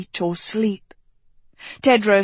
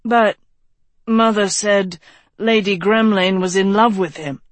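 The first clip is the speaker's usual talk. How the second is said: arguing. Acted. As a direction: object as you start the line. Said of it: "Tedros argued".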